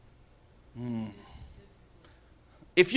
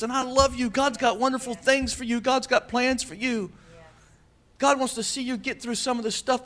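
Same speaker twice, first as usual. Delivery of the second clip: tender encouragement; 4 semitones higher than usual. Retold or imitated. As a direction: comfort them with an arm around. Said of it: "put your arm around and say".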